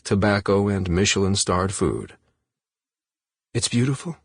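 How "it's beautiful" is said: Jane's voice. A narrator's reading. Jane answers Victor softly.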